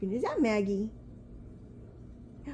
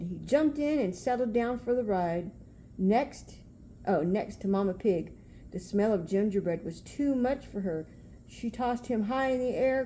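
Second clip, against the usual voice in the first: storybook reading. A narrator's reading. Reading picture book aloud.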